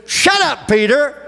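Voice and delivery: sharp, high mock rebuke; mock shout. Preacher voicing God telling Peter to hush. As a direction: snap it out as God cutting in.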